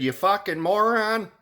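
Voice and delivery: high, loud "moron" stretched out; mock retort. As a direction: hurl it at the seller with glee. Retelling his eBay reply.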